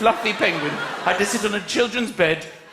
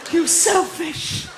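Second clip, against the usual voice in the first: mock furious dad; 6 semitones higher than usual. Dad ranting at children.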